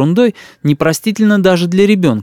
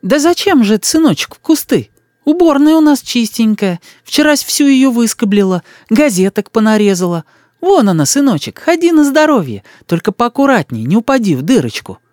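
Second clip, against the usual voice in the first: put-on fussing old woman; 10 semitones higher than usual. A narrator's reading. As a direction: coo over the boy like a village granny. Old woman reassures boy. (старушка причитает над мальчиком)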